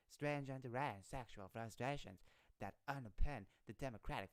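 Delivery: badly faked Southern cowboy accent. Streamer attempting a cowboy for the politician's tweet, Southern accent. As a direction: read it with an amateur Southern twang. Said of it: "let me do a cow-, cowboy voice".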